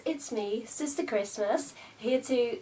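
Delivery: high, loud campy greeting; campy drag queen. Acted. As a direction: camp it up as Sister Christmas. Opening in character voice.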